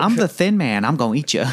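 high mock-Southern monster; Southern accent. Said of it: "read it in Southern accents".

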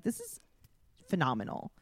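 deadpan irony at being ignored; sarcastic. Retold or imitated. Ignored on a date, a sarcastic sing-song.

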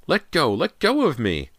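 high, loud frantic scream; panicked scream. A narrator's reading. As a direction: fight them off screaming. Hands pulling her down.

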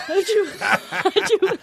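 high-pitched fake sneezes in a row; squeaky audition sneezes, one after another; hammed-up high sneezes for the audition. Shown as a demonstration. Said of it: "I had to fake sneeze".

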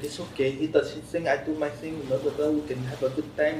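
softly imitated, muddled French-Indian accent; lightly imitated woman with a wobbly Indian-sounding accent; slipping French-to-Indian accent. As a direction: attempt a French woman, drift toward Indian. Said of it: "go from French to Indian".

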